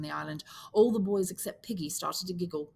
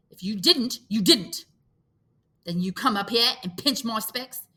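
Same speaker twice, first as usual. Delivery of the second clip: put-on higher, louder boy's rebuke; Piggy retorting; 5 semitones higher, 6 dB louder than usual. Piggy accusing the boys about his specs, indignant. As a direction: jab back at them.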